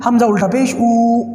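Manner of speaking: او held long and slow at the end; drawn-out vowel. Shown as a demonstration. تلفظ سکھاتے ہوئے طلبہ کے لیے، او کو کھینچ کر. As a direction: stretch the الٹا پیش sound in او. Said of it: "میں بھی آواز کو لمبا کر رہا ہوں".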